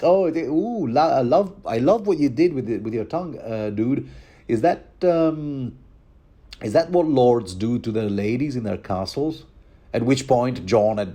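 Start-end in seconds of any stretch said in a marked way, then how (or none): 0.0-9.4 Ygritte quote. Retold or imitated. The wildling girl teasing her lover, lightly raised. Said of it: "She did ask".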